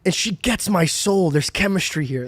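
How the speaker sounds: lightly voiced dude, drawn out toward the end; imagined smitten dude. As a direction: play a hint of a dude marvelling at a girl. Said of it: "I just pictured a dude being like".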